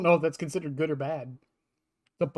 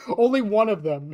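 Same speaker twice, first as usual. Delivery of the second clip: laughing; 4 semitones higher than usual. Real, not acted. Laughing while explaining the rule.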